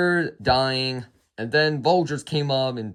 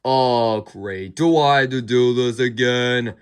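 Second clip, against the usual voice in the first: bored actor; 3 semitones lower, 4 dB louder than usual. Retold or imitated. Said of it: "he was kinda bored".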